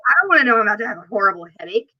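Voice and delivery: rushed complaining; fast rant. Retold or imitated. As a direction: rattle it off fast. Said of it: "I was like".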